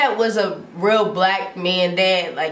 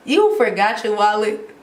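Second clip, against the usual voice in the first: more emphatic incredulous repeat; exasperated question, replayed with force; retold disbelief. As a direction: push the mock disbelief harder.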